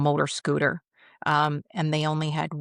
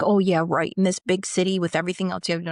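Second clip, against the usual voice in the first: sarcastic scoff, louder at the start then quick; retold disbelief; 2 semitones higher, 3 dB louder, faster than usual. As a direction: imitate a sceptic brushing off a promise. Man doubts officer's promise, retold.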